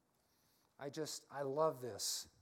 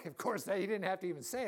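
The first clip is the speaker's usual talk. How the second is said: laughing aside; 3 semitones higher, 6 dB louder, faster than usual. Real, not acted. Laughing aside after gunman quote.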